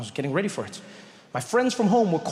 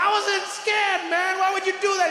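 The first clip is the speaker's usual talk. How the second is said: indignant; 12 semitones higher than usual. Retold or imitated. Trevor complaining.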